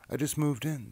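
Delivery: high, loud, cheery rat voice; cheery Ratty. Acted. Ratty telling Mouse about his doorway, high and cheery. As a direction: bounce it out like a busy pack rat.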